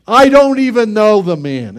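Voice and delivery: loud, high denial; angry denial. Retold or imitated. Peter loudly denying he knows Jesus, angry. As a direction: throw the denial out hard. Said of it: "just what the Lord said".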